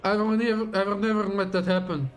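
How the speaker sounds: dramatic villain reading; grand, menacing speech to an enemy; villain monologue. Acted.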